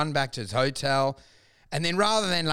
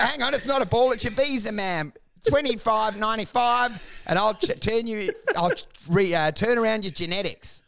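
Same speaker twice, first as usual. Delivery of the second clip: mock salesman magician; 4 semitones higher than usual. Acts out magician salesman pitch.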